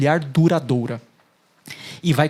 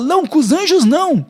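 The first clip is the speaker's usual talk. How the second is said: firm refusal; 9 semitones higher, 5 dB louder than usual. Retold or imitated. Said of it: "o Ló vai do lado de fora e fala".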